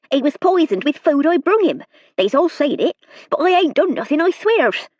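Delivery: a frightened country maid pleading her case; nervous serving girl. A narrator's reading. Hilda voice held.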